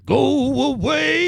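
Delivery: high, slow silly voice; squeaky put-on voice. Joking dismissal in put-on voice.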